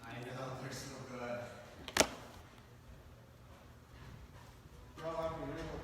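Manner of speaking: talking through a mouthful; mouth full. Real, not acted. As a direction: speak while chewing food. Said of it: "You talking with your mouth full?".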